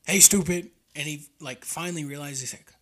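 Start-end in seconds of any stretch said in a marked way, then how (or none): 0.1-0.7 high, loud holler; retold yell. Hunter hollering at buck after the honk, retold yell. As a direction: call sharply across a distance. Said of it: "I just kept yelling".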